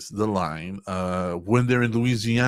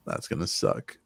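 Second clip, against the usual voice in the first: groaning dread; 5 dB quieter than usual. Acted. Deadpan groan at a movie remake.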